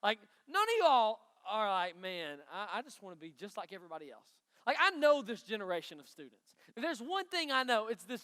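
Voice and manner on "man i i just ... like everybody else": low, hushed mock admission; mock conformist. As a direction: mumble it quickly as a pretend follower. Mock quote of a conformist student.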